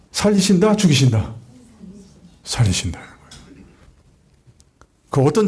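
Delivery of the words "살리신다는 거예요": low whisper, much softer; a low, hushed revelation; whispered answer. Real, not acted.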